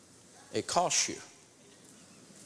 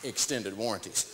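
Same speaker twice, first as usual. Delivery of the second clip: slow insistence; 5 semitones lower, slower than usual. Retold or imitated. Insisting, explaining slowly.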